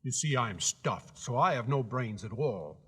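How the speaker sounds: sadly. Acted. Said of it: "he answered sadly".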